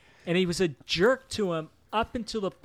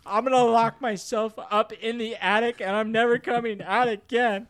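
mock angry kid; 3 semitones higher, 4 dB louder than usual. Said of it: "He's like".

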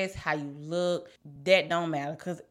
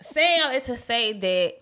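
laughing; 6 semitones higher, 6 dB louder than usual. Real, not acted. Laughing after a joke.

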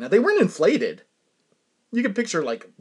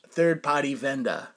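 third party said New England style as thahd pahty, dropping the r sounds; light New England accent on third party vendor. Retold or imitated. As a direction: imitate a New England repair guy saying third party. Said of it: "Pardon me for my New England accent, but that's how he sounded".

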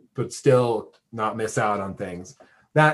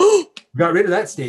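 laughing; 9 semitones higher, 7 dB louder than usual. Real, not acted. Laughs after slip.

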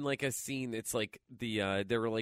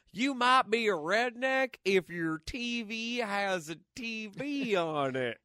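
lightly put-on redneck joke delivery; redneck comic impression; 4 semitones higher than usual. Parodying Jeff's redneck jokes, redneck comic impression. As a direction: do a hint of a redneck stand-up comic.

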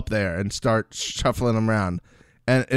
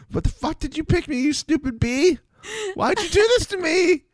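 mimicking James. Acting out James's whiny complaint.

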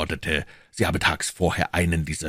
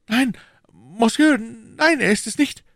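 high, raised-voice denial; crying out; 6 dB louder, slower than usual. A narrator's reading. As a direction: call out the denial, pitched high. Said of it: "rief Bonacieux". (hoher, lauter Ausruf)

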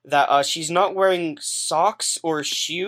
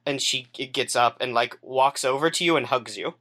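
ordinary talk

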